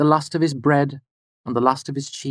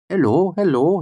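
rich, cheerful greeting; 4 semitones higher than usual. A narrator's reading. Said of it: "his voice bright and rich".

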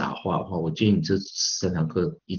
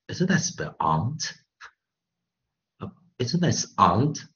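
quoting a cousin's puzzled question; imitated cousin; 5 semitones higher, slower than usual. US-born cousin correcting the teacher's word, imitated question. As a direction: query "aunt" as "ahnt", imitating the cousin. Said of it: "他忽然跟我讲".

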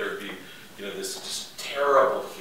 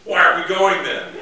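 mock president; 7 semitones higher, 11 dB louder than usual. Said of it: "So the president goes".

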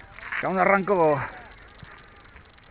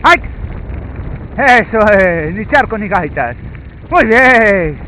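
squeaky praising a dog; 6 semitones higher, slower than usual. Real, not acted. Praising the dog during run.

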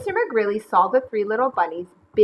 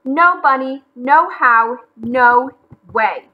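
loud, emphatic refusal; angry; 4 semitones higher, 9 dB louder, slower than usual. A narrator's reading. McGreely refusing to share with bunnies, angry. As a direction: punch out each phrase loudly.

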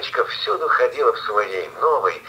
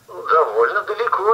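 put-on little girl voice; 8 semitones higher than usual. Girl answers wolf.

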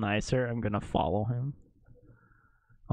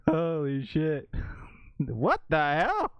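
shocked, drawn out; 3 semitones higher, slower than usual. Real, not acted. Shocked reaction.

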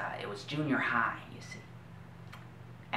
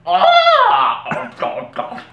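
mother crying; 8 dB louder than usual. Retold or imitated. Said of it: "She's like".

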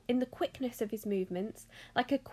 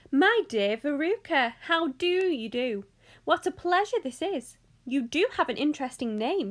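lightly voiced eccentric host, excited greeting; lively, emphatic showman's welcome; effusive Mister Wonka; 2 semitones higher, 4 dB louder than usual. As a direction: gush politely over each guest.

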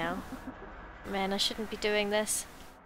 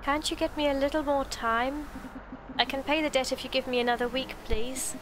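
lightly voiced granny, pleading; a hint of an old woman begging; pleading old lady; 2 semitones higher than usual. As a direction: plead for more time as an elderly tenant.

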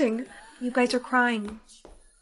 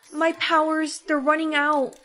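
alarmed; 3 semitones higher, 5 dB louder than usual. Acted. Magic running out panic.

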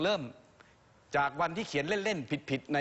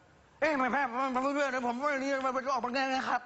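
higher mock kid voice; kid answering his mom; 9 semitones higher than usual. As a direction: play a confused child replying to his mother. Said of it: "พอพ่อแม่ถามก็อีกทีนึงก็". (ลูกตอบแม่ด้วยเสียงเด็กสูงแบบล้อเลียน)

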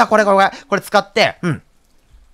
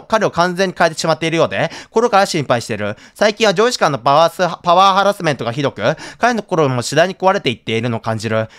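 diary reading. Acted. Reads diary entry aloud.

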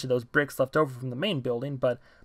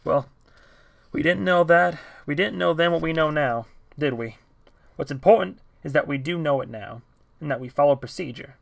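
1 sighing calm; 2 semitones higher, 3 dB louder than usual. Acted. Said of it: "sighed and said".

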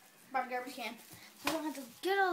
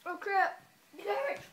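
disgusted outburst; 7 semitones higher, slower than usual. Real, not acted. Last gross bean.

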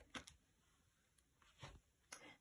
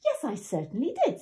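indignant little wolf; 6 semitones higher, 4 dB louder than usual. Acted.

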